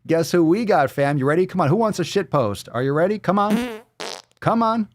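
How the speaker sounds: rapid-fire excited goading; hype-man build-up. Acted. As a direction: whip the audience up, pitched high. Hype man teasing the segment.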